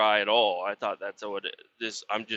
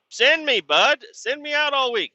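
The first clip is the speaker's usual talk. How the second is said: high, loud begging; an eager plea to the boss to send him; 13 semitones higher, 4 dB louder than usual. Retold or imitated. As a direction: beg to be sent out.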